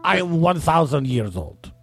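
slow, drawn-out ancient being; thousand-year-old voice. Pretend. Guest playing an ancient being for the host, slow and stately. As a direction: intone it slowly like someone ancient. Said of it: "put some reverb in his voice".

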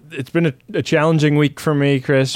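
talking through burps; words pushed out on a burp. Real, not acted. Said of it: "Ben's, you know, speaking through burps".

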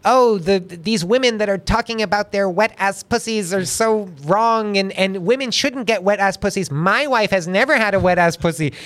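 a hammed-up impression of a pundit lecturing about wives; mocking Ben Shapiro. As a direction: lampoon him as weak and prim. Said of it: "he talks like this".

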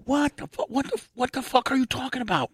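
high, incredulous squeal of disbelief; shocked disbelief. Retold or imitated. Stunned young DJ squealing at his boss's offer.

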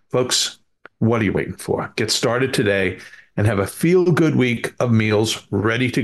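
measured podcast sponsor read. Acted. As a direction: deliver it as a host's sales pitch, key offer words punched. Host reads a sponsor ad.

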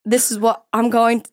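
put-on terrible Australian accent. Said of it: "here's my Australian accent".

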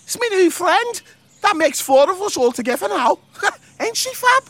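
high, cheeky bug voice; proud, bouncy little beetle; chirpy beetle voice. Acted.

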